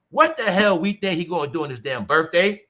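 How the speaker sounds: ordinary talk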